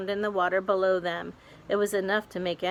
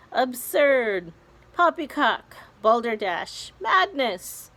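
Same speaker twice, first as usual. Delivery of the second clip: scoffing; 5 semitones higher, 5 dB louder, slower than usual. Acted. Creatures scoff at plan.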